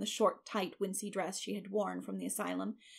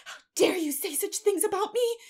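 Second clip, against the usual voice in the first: high, loud indignant challenge; furious child confronting an adult; vehement; 12 semitones higher, 7 dB louder than usual. A narrator's reading. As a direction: demand it with wounded fury. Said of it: "she repeated vehemently".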